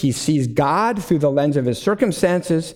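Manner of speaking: usual speaking voice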